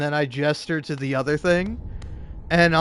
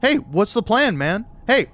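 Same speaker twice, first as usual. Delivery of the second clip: mock a pestering, condescending boss; needling repeated questions, imitating an annoying manager; 3 semitones higher than usual. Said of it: "in a really condescending and annoying".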